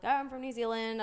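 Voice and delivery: lightly put-on New Zealand accent. Telling strangers where she is from, New Zealand accent. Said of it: "and I talked like this".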